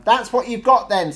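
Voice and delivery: loud, high-pitched alarmed machine; considerable alarm. A narrator's reading. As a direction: blurt it out in alarm. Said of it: "in considerable alarm".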